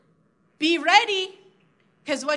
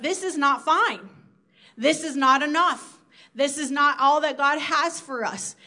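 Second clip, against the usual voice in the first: firm conviction; 3 dB louder than usual. Retold or imitated. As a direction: push back against complacency, word by word. Inner voice rejecting complacency.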